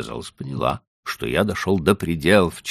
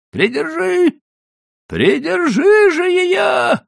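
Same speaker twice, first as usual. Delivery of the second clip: very high, loud desperate yell; breathless shout; 8 dB louder, slower than usual. A narrator's reading. Husband running behind the cart yelling to wife, breathless shout. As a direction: shout for her to hold the donkey. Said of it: "задыхаясь, кричал я Билли".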